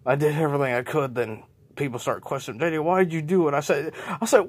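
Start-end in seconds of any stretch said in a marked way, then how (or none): 2.6-3.5 accusing crowd. Acted. People accusing J J.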